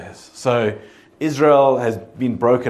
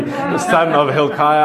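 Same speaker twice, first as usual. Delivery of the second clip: confident reading; 5 semitones higher, 6 dB louder, slower than usual. Shown as a demonstration. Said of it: "say confidently".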